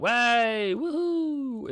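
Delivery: high, giddy woohoo for the market; mock cheer. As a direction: cheer like the chart is partying. Voicing market pullbacks cheering.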